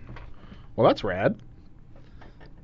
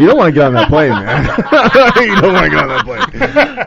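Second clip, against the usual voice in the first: laughing. Real, not acted. Laughing at his own bit.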